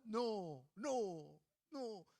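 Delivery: put-on baby says no. Baby imitating mother.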